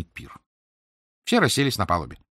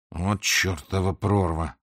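slow muttered remark, lightly voiced; a hint of a sly sailor; remark from Harry; 2 semitones lower, slower than usual. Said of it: "заметил Гарри".

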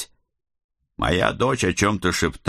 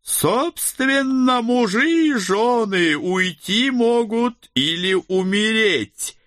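menacing necromancer; 11 semitones higher, slower than usual. Acted. Некромант продолжает архаичную речь.

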